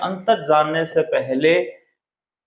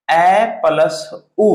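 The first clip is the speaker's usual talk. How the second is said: slow demo; 3 dB louder, much slower than usual. Shown as a demonstration. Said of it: "ओ की मात्रा किन से बनती है?".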